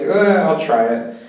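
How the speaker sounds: mildly disgusted, reluctant agreement; grudging, lightly acted distaste. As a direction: play a touch of revulsion while giving in. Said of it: "He's disgusted".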